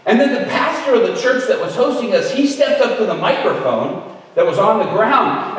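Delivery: ordinary talk, nothing marked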